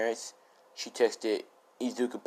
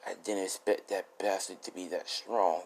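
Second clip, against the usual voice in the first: breathing bad; 6 dB quieter, slower than usual. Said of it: "breathing bad".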